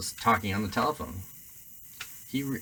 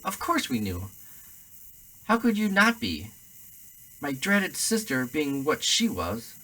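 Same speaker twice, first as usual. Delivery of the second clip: higher, bitter, rising rant; ranting aunt; 6 semitones higher, 3 dB louder than usual. A narrator's reading. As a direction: pour out years of resentment, shrill. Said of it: "went ranting on".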